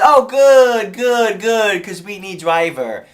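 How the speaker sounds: loud, high, delighted mock Chinese accent; excited Chinese-accented owner; imitated Chinese owner. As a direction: burst out relieved in a Chinese accent, then settle. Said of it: "She goes".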